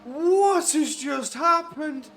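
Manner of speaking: high, loud, slowed disbelief; stunned disbelief. Real, not acted. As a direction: drag it out in shock. Stunned reaction after crash.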